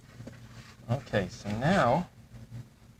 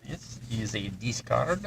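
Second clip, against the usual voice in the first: slow, hammed-up French accent; a hint of mock French; fake French accent; slower than usual. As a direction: put on a bad French accent, rising at the end. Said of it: "said it in my horrible, horrible French, fake French accent".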